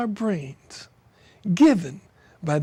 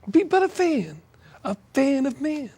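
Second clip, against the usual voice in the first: poem recital. Acted. Poet reading a rain poem aloud, declamatory. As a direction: let each line ring like a lament.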